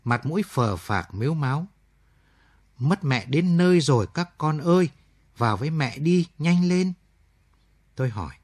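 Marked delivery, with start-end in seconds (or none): 2.8-6.9 put-on urgent, choked-up call to the children; a hint of sobbing, hurrying them in; tearful plea. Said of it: "mắt đỏ hoe sưng húp ... mếu máo". (giọng mếu máo, gấp gáp)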